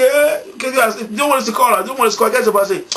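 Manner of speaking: high, gloating mockery of rival fans; teasing. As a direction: rub it in playfully. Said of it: "pour me moquer". (taquinerie moqueuse, voix haute)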